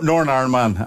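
Northern Irish said the real way, with a laugh; a native Northern Irish accent, shown with amusement; proper Northern Irish accent. Shown as a demonstration. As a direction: show her how a Northern Irish accent really sounds. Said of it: "it's a terrible accent".

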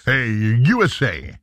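slow, hammed-up American accent; lightly mocking American drawl. Shown as a demonstration. Cheeky American accent impression for co-host, slow and hammed-up. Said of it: "the American accent's one accent you can do".

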